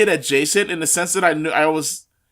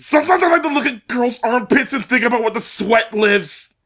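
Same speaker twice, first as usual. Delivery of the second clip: Joseph Gribble impression; 5 semitones higher than usual. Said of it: "that's straight some shit that he says".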